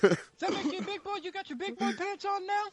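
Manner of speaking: high, loud laughing taunt; mocking taunt. Mocking the tough guy with a high laughing taunt. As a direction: jeer at him like a big kid. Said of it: "He's stomping on it like".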